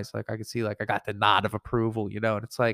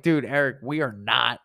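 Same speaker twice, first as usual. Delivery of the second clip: emphatic objection. Retold or imitated. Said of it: "in my head, I'm like".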